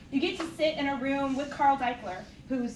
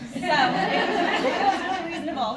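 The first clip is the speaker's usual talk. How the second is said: drawn-out ironic; 4 semitones higher, 8 dB louder, much slower than usual. Real, not acted. Mocking tone on reasonable.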